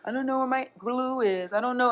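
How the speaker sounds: put-on small, high, soft kid voice; imitating helpless kid. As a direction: mimic a lost kindergartner. Voicing helpless, less responsible kindergartners.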